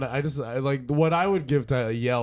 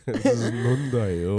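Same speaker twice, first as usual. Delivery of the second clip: put-on Japanese accent; slower than usual. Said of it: "full-on Japanese accent".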